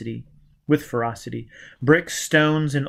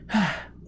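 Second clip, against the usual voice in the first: shaky breath; 6 semitones higher, 5 dB quieter than usual. A narrator's reading. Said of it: "she took a breath".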